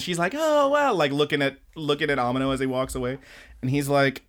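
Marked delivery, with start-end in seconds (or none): 0.3-0.9 high, starstruck sigh; dreamy girl voice. Retold or imitated. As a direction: breathe it like she's smitten. Smitten girl voiced in story.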